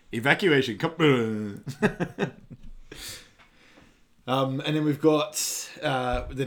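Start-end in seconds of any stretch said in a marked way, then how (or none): 0.1-1.6 robotic computer voice. Retold or imitated.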